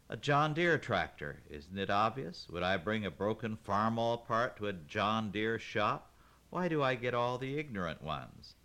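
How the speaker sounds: sarcastic, fed up; exasperated. Acted. Mom exasperated with the parts man.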